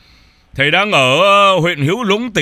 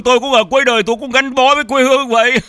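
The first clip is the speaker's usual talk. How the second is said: laughing; 7 semitones higher, 4 dB louder than usual. Real, not acted. Laughs at shared fate.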